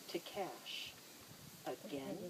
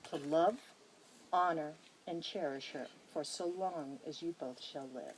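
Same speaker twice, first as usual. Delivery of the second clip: formal vow reading; 3 dB louder than usual. Acted. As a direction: read each vow clause with weight, like an officiant. Officiant reads the wedding vows.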